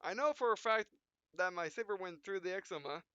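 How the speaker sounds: hammed-up anime pilot, punchy and loud in the fights; dramatic hero narration. Gamer voicing his pilot through a close mech duel, hammed-up. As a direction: play the frantic mech pilot mid-duel.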